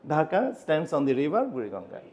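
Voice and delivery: slow, careful English with a Bengali accent. Shown as a demonstration. Teacher demonstrates Bengali-accented English, slow. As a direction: read it like a Bengali speaker learning English. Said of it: "এটা বাংলা অ্যাকসেন্টে আমি ইংলিশটা বললাম".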